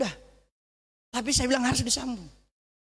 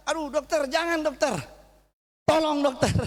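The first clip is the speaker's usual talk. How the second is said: pleading; 6 semitones higher than usual. Retold or imitated. Pleading with doctor over finger.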